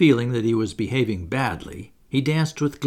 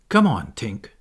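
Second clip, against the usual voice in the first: calling out; 4 dB louder than usual. Acted. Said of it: "he cried".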